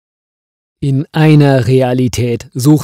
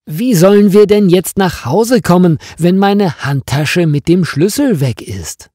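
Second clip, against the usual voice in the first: much higher and louder, close to panic; desperate about the missing keys; agitated; 8 semitones higher, 6 dB louder than usual. Acted. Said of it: "fragt Marianne aufgeregt". (aufgeregt, deutlich höher und lauter, fast panisch)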